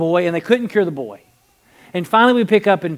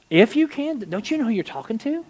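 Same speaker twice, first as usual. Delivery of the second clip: higher-pitched incredulous retort; 4 semitones higher than usual. Retold or imitated. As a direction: throw the words back in disbelief. Acting Jesus' incredulous retort.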